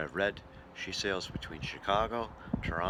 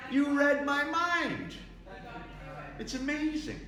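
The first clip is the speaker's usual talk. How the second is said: mock amazement; 5 dB louder, slower than usual.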